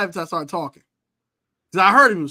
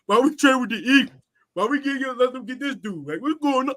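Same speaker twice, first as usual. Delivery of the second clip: mad fan voice; 10 semitones higher than usual. Retold or imitated. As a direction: vent like a fed-up fan whose team blew the trade. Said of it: "the mad fan voice".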